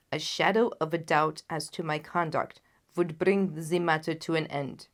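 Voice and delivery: anxious monarch laying out his marriage; loud, grave king. Acted. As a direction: explain the match with royal weight. The king explains his engagement.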